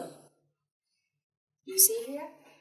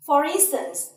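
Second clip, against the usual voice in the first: ordinary delivery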